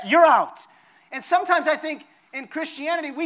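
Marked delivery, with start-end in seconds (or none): 0.1-0.6 sudden loud call, falling at the end; game caller's out call. Acted. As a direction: call a player out, loud and final. Calling players out in Simon Says.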